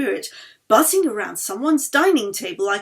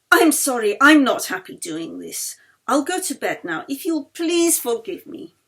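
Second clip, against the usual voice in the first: louder, hurried excuse; flustered apology; 3 semitones higher, 7 dB louder than usual. A narrator's reading. Yeli excusing herself from the table, flustered and louder. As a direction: blurt the apology and escape.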